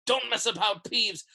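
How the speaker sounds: high, exasperated questioning; impatient demand. A narrator's reading. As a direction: lose patience with a time-waster. Filch losing patience with Peeves.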